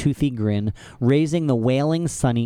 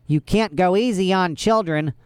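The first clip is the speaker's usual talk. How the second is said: hook-handed henchman; 7 semitones higher than usual. A narrator's reading. Hook-handed man voiced.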